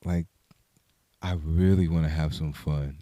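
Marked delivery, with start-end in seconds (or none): 1.2-3.0 imitating him. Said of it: "try to say it like how he said it".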